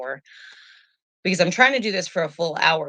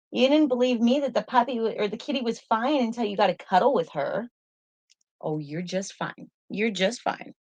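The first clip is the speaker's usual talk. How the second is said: high coaxing voice to the dog; gently calm the pup down; pet talk; 7 semitones higher than usual. Real, not acted. Reassuring her dog.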